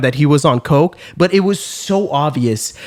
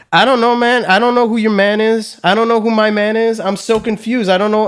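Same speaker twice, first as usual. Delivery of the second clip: acting out baffled helplessness, higher-pitched; stunned confusion; 4 semitones higher than usual. Guy cornered by an aggressive stranger, stunned and confused. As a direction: plead total confusion, retelling your own fluster. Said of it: "completely fucking stun locked".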